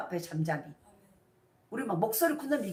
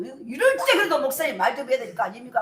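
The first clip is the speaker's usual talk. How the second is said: raised, louder mock protest; irate congregant; 4 semitones higher, 6 dB louder than usual. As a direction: imitate a fed-up church member demanding an answer. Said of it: "막 성도들이 성질이 나가지고". (성질난 성도 흉내, 따지는 말투)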